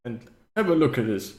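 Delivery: lightly voiced courteous old host; old necromancer. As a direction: ask politely as a doddery necromancer. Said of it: "every time you talk as this necromancer".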